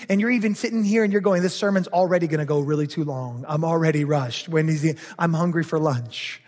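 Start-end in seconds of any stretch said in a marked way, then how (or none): 1.4-6.4 mild mock complaint, lower and rushed at first; lightly voiced restless listener, pitched down; impatient grumble. Pastor mimicking a congregant impatient for lunch, lower mild grumble.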